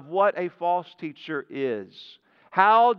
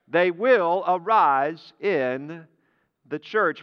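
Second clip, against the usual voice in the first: slow, deliberate repeat; 2 semitones lower, slower than usual. Real, not acted. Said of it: "false teachers will arise in the church".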